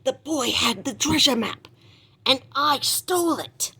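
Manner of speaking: gloating pirate. Acted. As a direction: brag about the theft like a pirate. Long John gloats to sailors.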